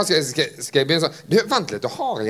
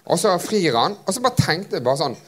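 normal talking voice

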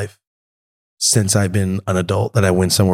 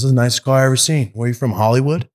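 mock cop; 4 semitones higher, faster than usual. Cop quoted at traffic stop.

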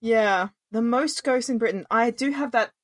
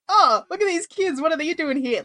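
mocking ghost; 5 semitones higher than usual. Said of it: "the ghosts are like".

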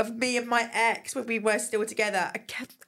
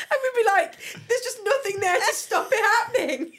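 high, laughing retelling; helpless laughing; 10 semitones higher, 4 dB louder than usual. Real, not acted. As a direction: squeeze the words out through real laughter. Cracking up telling own story.

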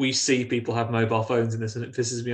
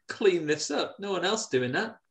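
mock scolding; 4 semitones higher than usual. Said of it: "You're like".

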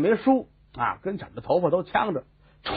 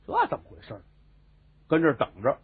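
ordinary delivery

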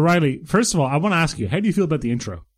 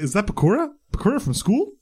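mock surprise; 5 semitones higher than usual. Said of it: "it's like".

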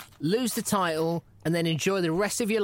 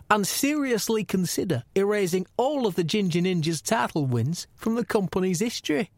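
lightly voiced gruff commissioner reading a text; a hint of the boss's voice, reading out his message; mild mock commissioner voice; Gary Shag impression; 2 semitones higher than usual. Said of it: "I'll try and do it in my best Gary Shag accent".

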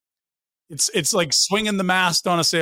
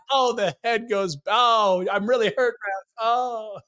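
higher, whiny mock of a hurt player; co-host's special voice; 6 semitones higher, slower than usual. Teasing co-host by imitating his mocking voice, higher and whiny. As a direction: lampoon the partner's drama voice. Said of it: "You have a special voice you do when you're, when you're imitating someone".

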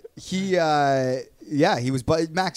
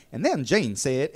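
put-on slow, lightly drawn-out Southern accent; a hint of a Southern accent, read slowly like a quiz clue; mild Southern accent. Alex Trebek reading a quiz clue in a light Southern accent. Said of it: "he does it in a Southern, like, black accent".

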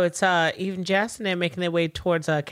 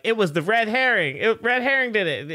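accusing cartoon kid; 5 semitones higher, 3 dB louder than usual. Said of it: "young Freddy will always be like".

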